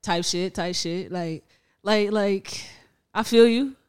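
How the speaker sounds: cartoonish cool talk. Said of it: "Why are you talking like that?".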